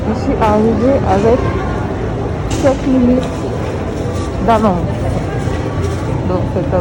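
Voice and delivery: muffled behind a face mask; through a face mask. Real, not acted. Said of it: "je sais pas si vous m'entendez bien".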